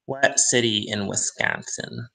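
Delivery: lightly put-on Wisconsin accent. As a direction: flatten the vowel in Wisconsin like a Midwesterner. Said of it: "I know they don't talk like this".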